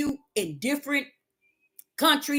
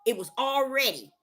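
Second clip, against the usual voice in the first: lower, softer divine voice; God answering Deborah, low and calm; 5 semitones lower, 3 dB quieter than usual. Pretend. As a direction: speak as a patient God. God speaking to her.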